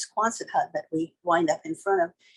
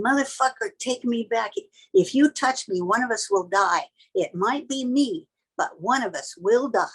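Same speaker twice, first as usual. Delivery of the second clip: higher, defiant mock yell at the driver; trapped passenger screaming threats at the cab driver, fierce mock yell; retold scream; 4 semitones higher than usual. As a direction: threaten him like you mean it, half-yelled. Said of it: "I'm screaming at this cab driver".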